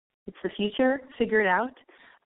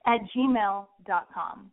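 slow, deliberate, every word spelled out; slow careful redo; 3 semitones lower, much slower than usual. Real, not acted. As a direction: redo it slowly and clearly. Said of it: "Oh my God, my voice cracked".

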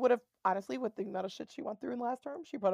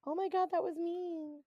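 higher, slow, drawn-out mild reproach; slow mock reproach; 7 semitones higher, 3 dB quieter, slower than usual. Mocking how Mara scolds Joy, slow prim reproach. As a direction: say it slowly with mock prim dismay. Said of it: "all you have to say is".

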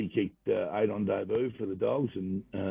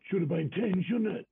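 needling coach; 10 semitones higher than usual. Retold or imitated. Coach Sheeds needling him after debut.

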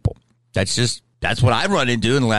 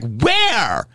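imitating a West Hollywood shop guy, higher and drawn out; lightly camped-up West Hollywood voice; mock West Hollywood accent gasping at something crazy; 4 semitones higher, slower than usual. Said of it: "usually that accent comes out".

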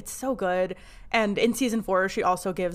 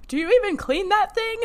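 higher, louder quoted question; a hint of Steve, pitched up; imitating Steve; 12 semitones higher, 5 dB louder than usual. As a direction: lightly mimic Steve, raised pitch and volume. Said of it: "Steve going".

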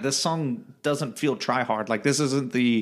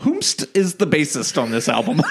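laughing; 4 semitones higher than usual. Real, not acted. Jokey archaic question, laughing.

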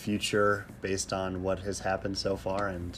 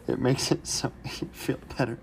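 laughing through it; 4 semitones higher than usual. Real, not acted. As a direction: try to stay straight but keep laughing.

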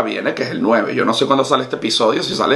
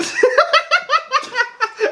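high squealing laugh. Real, not acted.

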